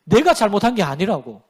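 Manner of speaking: sighing, halting mock lament; sigh, then grumble the blame onto someone else; imitated excuse-maker bemoaning bad luck; self-justifying. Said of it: "자기 합리화예요".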